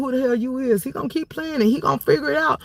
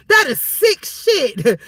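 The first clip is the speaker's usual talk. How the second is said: laughing slowly; 2 semitones lower, much slower than usual. Real, not acted.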